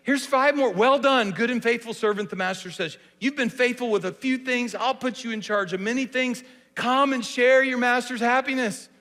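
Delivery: high, joyful praise; celebrating. Shown as a demonstration. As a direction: throw him a party with your voice. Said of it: "let's celebrate this thing".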